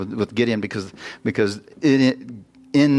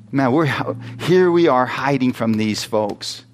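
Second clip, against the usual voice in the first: frustrated Gideon. Retold or imitated. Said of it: "can you imagine the frustration in Gideon".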